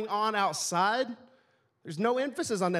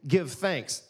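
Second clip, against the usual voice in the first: slow scripture reading; slower than usual. Real, not acted. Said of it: "The last one, it says".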